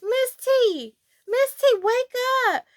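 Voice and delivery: put-on mild kid call to wake sis; calling to wake her. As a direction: try to rouse a sleeping sister. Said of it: "I'ma call her Miss T".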